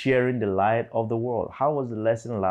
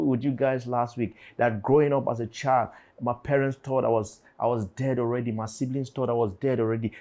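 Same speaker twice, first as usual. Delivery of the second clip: ordinary delivery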